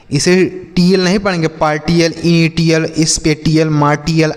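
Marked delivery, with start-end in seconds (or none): 1.5-4.3 "पार्टियल, इनिटियल, स्पेटियल, मार्टियल" with hard T; wrong pronunciation. Shown as a demonstration. Teacher showing misreadings, "पार्टियल, इनिटियल, स्पेटियल, मार्टियल" with T. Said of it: "ऐसे नहीं".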